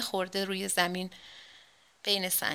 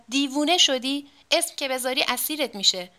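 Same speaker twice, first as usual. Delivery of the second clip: acted shout; 4 semitones higher, 3 dB louder than usual. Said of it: "حبیب آقا فریاد زد".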